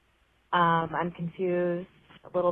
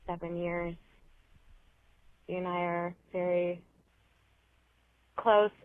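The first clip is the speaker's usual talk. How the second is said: slow, groggy, long pauses; hungover; 4 dB quieter, slower than usual. Real, not acted. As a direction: hungover and halting. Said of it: "I'm a little hungover".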